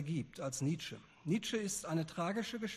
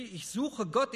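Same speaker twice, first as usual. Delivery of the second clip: calling out; 6 semitones higher, 3 dB louder, slower than usual. A narrator's reading. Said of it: "unaufhörlich schrie".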